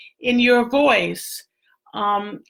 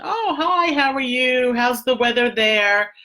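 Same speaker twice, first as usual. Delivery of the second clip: friendly phone small talk; 3 semitones higher than usual. Shown as a demonstration. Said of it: "can I kinda soften the conversation?".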